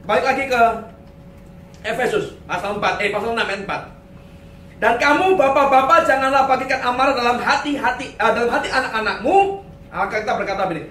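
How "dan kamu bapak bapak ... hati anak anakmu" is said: raised, declaiming Bible reading; scripture reading. Acted. Preacher reading Ephesians to fathers, declaiming. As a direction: read the verse out to the whole hall. Reads scripture aloud to congregation.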